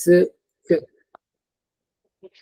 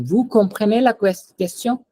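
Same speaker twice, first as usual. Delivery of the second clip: "Vous comprenez la question?" pitched higher, rising on "question"; asking intonation; 6 semitones higher than usual. Shown as a demonstration. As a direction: lift the last word "question" to ask. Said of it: "I'm asking a question".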